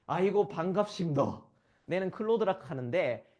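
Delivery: 경상도 사투리로 크게 읽기; lively Gyeongsang dialect. Retold or imitated. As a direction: read it like a chatty Gyeongsang local. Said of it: "클로드한테 부탁하잖아요".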